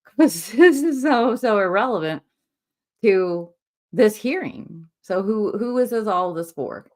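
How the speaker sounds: laughing disbelief. Real, not acted.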